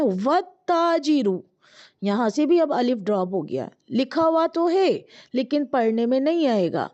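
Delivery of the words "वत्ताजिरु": वत्ताजिरु slowly, no alif, doubled t; careful slow demo word; joined Arabic word demo; waw joined, alif dropped. Shown as a demonstration. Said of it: "हम यहाँ वाव मिलाकर देखते हैं".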